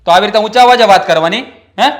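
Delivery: husband scolding his wife, angry. Acted. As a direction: scold her for her tone.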